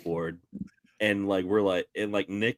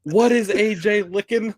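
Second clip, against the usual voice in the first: put-on high, loud startled old lady; grandma's shocked question; 11 semitones higher, 6 dB louder than usual. Grandma catching them through the window, high and startled. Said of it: "And she's like".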